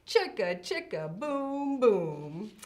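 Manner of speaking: loud, playful schoolyard taunt; taunting dare. Acted. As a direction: shout it like a cheeky kid. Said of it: "and this is what he said".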